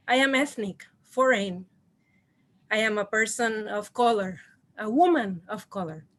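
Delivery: real tremble, holding back tears; trembling voice. Real, not acted. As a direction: voice shaking with emotion. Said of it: "Sorry, my voice is trembling".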